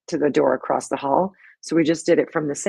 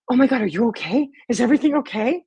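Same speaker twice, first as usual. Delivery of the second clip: mildly alarmed, higher-pitched questions; retold panic; 6 semitones higher, 3 dB louder than usual. Cleaner checking on a screaming stranger, mock panicked. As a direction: imitate a worried passer-by, pitched up. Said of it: "she's totally panicked".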